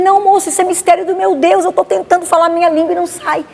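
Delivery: high pleading. Retold or imitated. Insisting it is God's mystery.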